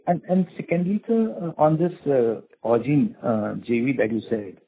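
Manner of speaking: muffled, as if through a hand. Real, not acted. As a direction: speak with your hand over your mouth. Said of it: "your voice is muffled".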